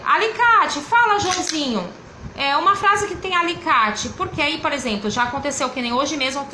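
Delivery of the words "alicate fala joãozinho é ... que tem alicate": lightly acted teacher prompt, raised pitch; a hint of classroom teacher voice; prompting a child. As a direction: call on a young pupil to answer.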